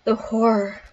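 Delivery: reading game text with dramatic relish; dramatic narration. Acted. Player reading horror text to viewers, dramatic narration. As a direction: narrate the grisly meal like a storyteller. Reads the game's narration aloud.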